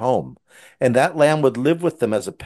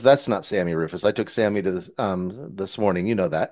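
gentle father; 4 semitones lower, 5 dB quieter than usual. Retold or imitated. Father gently correcting his son, lower and softer. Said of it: "And he goes".

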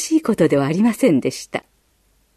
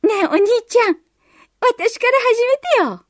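put-on much higher, mischievous girl's voice; playful little sister; 14 semitones higher than usual. A narrator's reading. Little sister teases her brother, much higher playful voice. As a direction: tease your big brother sweetly. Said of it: "茶目っ気たっぷりに言いました".

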